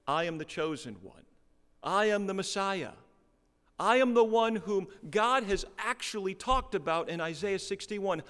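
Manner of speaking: put-on hometown boy loudly declaring himself Messiah; proud proclamation. Hometown boy to his neighbours, loud bold proclamation. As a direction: proclaim it boldly to the whole synagogue. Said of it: "and he says".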